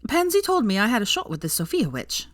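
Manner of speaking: light, bright voiced girl gushing; happily. A narrator's reading. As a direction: gush about her chances with Sophia. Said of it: "Veronica said happily".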